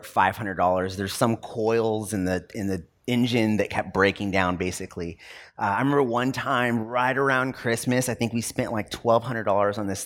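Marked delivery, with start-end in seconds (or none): none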